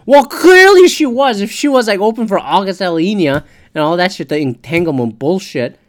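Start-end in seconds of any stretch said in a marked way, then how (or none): 0.0-3.4 sarcastic jab. Real, not acted. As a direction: lean hard on the sarcasm.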